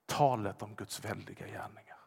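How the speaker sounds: hushed, breathy whisper, low. Acted. Pastor whispering of God's mighty works. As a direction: breathe the words in awe. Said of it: "whispered phrase".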